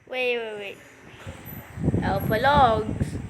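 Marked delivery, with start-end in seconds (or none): 2.0-3.2 "Alpha logs" with the B sound left out. Shown as a demonstration. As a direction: say "Alpha logs" slowly, dropping the B. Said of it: "Alpha logs without the B".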